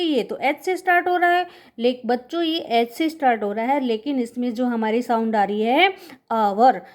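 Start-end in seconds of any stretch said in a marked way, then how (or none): 6.3-6.8 आवर begun on the vowel, no h; silent H. Shown as a demonstration. Teacher shows children the sound, आवर with a silent h. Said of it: "एच silent है इसमें".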